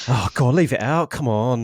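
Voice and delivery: Essex accent. Shown as a demonstration. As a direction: slip back into a mild Essex accent.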